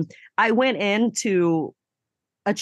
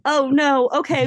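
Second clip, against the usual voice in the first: surprised; 7 semitones higher, 4 dB louder than usual. Real, not acted. Internet about to drop.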